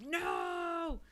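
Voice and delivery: high whispered "No!"; mock-horrified whispered no; whispered shout. Real, not acted. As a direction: gasp it in a whispered protest. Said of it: "whisper shout reaction".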